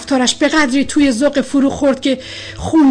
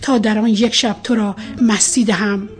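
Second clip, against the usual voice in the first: poem recitation; 3 semitones lower than usual. A narrator's reading. Recites a love poem aloud.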